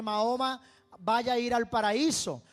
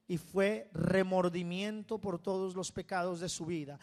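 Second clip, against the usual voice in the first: ordinary delivery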